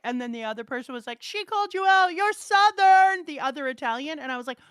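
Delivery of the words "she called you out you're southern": mock taunting. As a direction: imitate a pupil gleefully exposing a classmate. Acts out other student's taunt.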